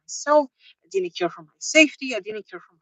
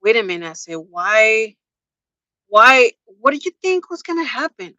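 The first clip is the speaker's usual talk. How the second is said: retold anger; 5 dB louder than usual. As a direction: imitate yourself getting mad on a date. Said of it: "but I got mad".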